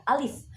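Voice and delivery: "Alif" said firmly as a name; brief, clear "Alif"; full letter name. Shown as a demonstration. Teacher shows original reading, firm short "Alif". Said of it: "sesuai dengan aslinya".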